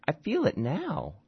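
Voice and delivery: high, insistent woman's voice; insist, half-dazed, that it moves; emphatic drugged mother. Acted. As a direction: Maya pressing the doctor, high and insistent.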